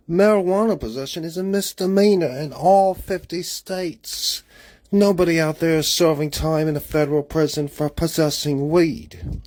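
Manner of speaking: put-on English accent all through; light English accent, held for the whole vlog. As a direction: chat to camera in a mock English accent. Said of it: "I'm using an English accent today".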